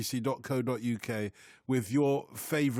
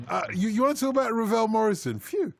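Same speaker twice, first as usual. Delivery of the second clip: mock relief; 7 semitones higher, 5 dB louder than usual. Real, not acted. Presenter relieved, mock exasperated.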